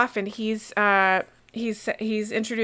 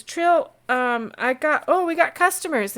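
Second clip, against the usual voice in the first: cheerful call; 6 semitones higher than usual. Acted. Innkeeper calls to his wife.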